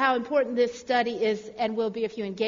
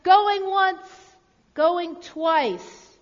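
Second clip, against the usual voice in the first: higher, louder call that eases off; auctioneer, calling out; 6 semitones higher, 5 dB louder, much slower than usual. A narrator's reading. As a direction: announce the sale to the room.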